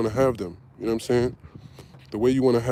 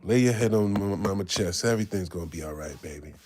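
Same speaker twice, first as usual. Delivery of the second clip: comforting mama; 4 semitones lower than usual. Pretend. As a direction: hush a child against your chest. Imagined mom comforting him.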